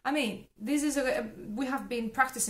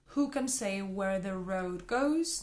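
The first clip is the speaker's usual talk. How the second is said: slow model reading. Shown as a demonstration. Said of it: "be careful with the sound R".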